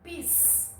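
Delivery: lápis with LÁ held long, PIS dropped soft; stress on LÁ. Shown as a demonstration. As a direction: draw out the first syllable of lápis. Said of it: "Qual é a sílaba tônica?". (lápis alongando o LÁ, com PIS fraquinho)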